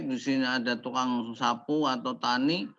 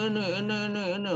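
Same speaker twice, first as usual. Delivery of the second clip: higher, put-on nagging; a hint of a squabbler; mock bickering voice; 6 semitones higher, much faster than usual. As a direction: mimic petty people squabbling. Mimicking squabbling people.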